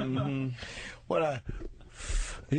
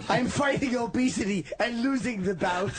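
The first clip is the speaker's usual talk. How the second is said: laughing rhyme; 6 semitones higher than usual. Pretend. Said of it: "I'm also a little teapot".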